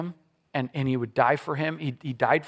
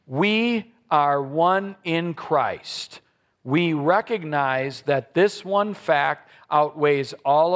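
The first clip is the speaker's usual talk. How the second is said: recited pledge. Acted. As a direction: read it out together, steady and solemn.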